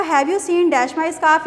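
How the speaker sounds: very slow exercise read. Shown as a demonstration. Teacher reading the third exercise slowly. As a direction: spell the sentence out slowly. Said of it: "third है आपका".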